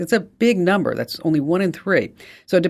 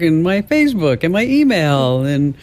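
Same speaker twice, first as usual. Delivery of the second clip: high, fast, hammed-up panic over being offline; mock frantic rush; 7 semitones higher than usual. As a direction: rattle it off like a frantic internet addict. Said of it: "All of a sudden it's like".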